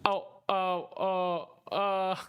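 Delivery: shocked um-ing at the plot twist; startled stammer. Real, not acted. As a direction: caught off guard, stumbling for words. Reacting to the scene's stabbing.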